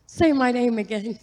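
delighted request, retold with laughter close behind; excited plea. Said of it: "I was so excited".

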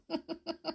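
quiet, high little laugh; amused storyteller's giggle; soft chuckle. Real, not acted. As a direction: chuckle softly to yourself.

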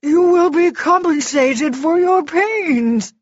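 high, loud panicked bargaining; desperate wailing offer; Froggy. A narrator's reading. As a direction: plead frantically to buy mercy. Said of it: "Froggy gabbled".

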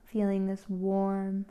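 unhurried instructions with long pauses; calm, spaced-out meditation leading; guided meditation. Real, not acted. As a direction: guide a listener gently into relaxation.

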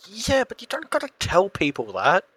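high-pitched pretend wounded protest; mock hurt. Teased friend pretending it was sensitive, mock hurt. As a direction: protest as if secretly embarrassed. Playing hurt after teasing.

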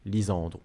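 "Lisandre" stressed on SAN, faint Corsican ending; original pronunciation. Shown as a demonstration. Host giving the original name, "Lisandre" in Corsican pronunciation. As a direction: lean on the middle of "Lisandre", let the ending drop. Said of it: "la plus proche de la prononciation originale".

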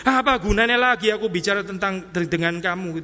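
mildly exasperated mock complaint; lightly hammed-up hurt grievance; rejected and fed up. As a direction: act out someone tired of being rejected. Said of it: "seseorang yang ditolak terus menerus".

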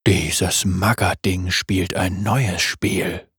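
tief und langsam geknurrt; knurrend. Acted. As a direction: ein gereizter Wolf grollt. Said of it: "knurrte Wolf". (Wolf knurrt tief und langsam)

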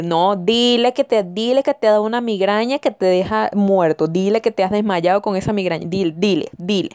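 lightly voiced pushy mom; a hint of a nagging, overdramatic mother; insistent mother prompting. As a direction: urgently coach someone on what to say. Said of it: "la mamá por allá y que".

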